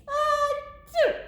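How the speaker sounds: high hammed-up sneeze; big fake sneeze. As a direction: let out a huge mock sneeze. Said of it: "I sneezed a great sneeze".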